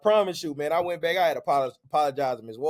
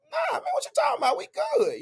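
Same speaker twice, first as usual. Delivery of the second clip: imitating his dad. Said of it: "she like".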